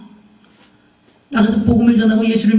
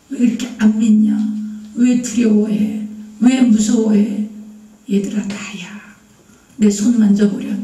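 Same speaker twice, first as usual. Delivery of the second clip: gentle, considerate Jesus. Acted. Jesus reassuring doubting disciples he is risen, gentle and patient. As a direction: gently reassure them, taking your time. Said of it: "제자들을 이렇게 배려하신 거예요".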